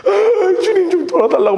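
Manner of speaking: very high tearful wail; hammed-up sobbing plea; imitated crying prayer. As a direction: act out wailing a prayer. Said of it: "울면서 기도했다가".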